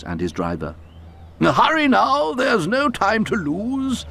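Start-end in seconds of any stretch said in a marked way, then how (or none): 1.4-4.1 urgent controller. A narrator's reading. Fat controller urging.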